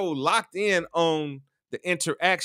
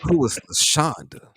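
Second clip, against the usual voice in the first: mimicking jealous partner; 5 semitones lower than usual.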